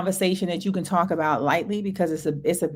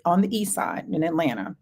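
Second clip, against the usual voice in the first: ordinary talk, nothing marked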